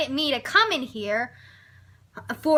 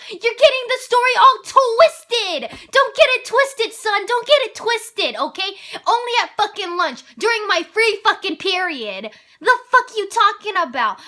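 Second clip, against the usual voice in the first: higher, louder, fed-up telling-off; heated, higher-pitched venting; indignant rant; 4 semitones higher, 5 dB louder than usual. Retold or imitated. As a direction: scold him like he's twisting the story. Ranting at the vice principal.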